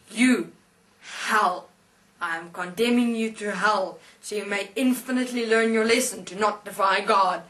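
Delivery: loud, portentous sentence with hard pauses; condemning angel. Retold or imitated. Angel in white hood condemning the atheist to hell, portentous. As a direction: pronounce doom as a mighty angel. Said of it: "I'm here as this angel".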